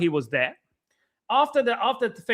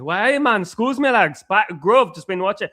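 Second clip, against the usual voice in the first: 3 semitones higher, 4 dB louder than usual. Retold or imitated. Mimicking the man who came to the car window, in a put-on Geordie accent. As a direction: imitate a Geordie with a big lilting greeting. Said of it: "I don't know if this is a good Geordie accent".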